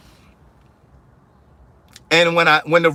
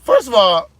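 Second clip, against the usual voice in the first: indignant retort. Retold or imitated. Retorting to rude rep.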